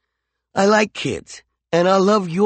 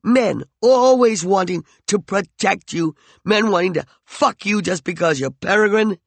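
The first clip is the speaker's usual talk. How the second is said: higher, louder jealous rage; raging; 7 semitones higher, 5 dB louder than usual. Acted. McCoy rages jealously at Peregrine, high and loud. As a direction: rage at her possessively. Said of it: "he raged".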